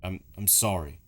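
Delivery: halting, low, fading almost to a whisper; hushed, regretful game character; sorrowful apology. Acted. Voices Luigi's halting apology.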